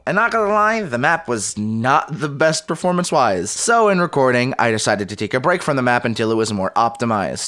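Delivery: even, lightly told voice-over; walk the viewer through it like a recap; recap narration. Acted. Creator narrating his progress to viewers, calm voice-over.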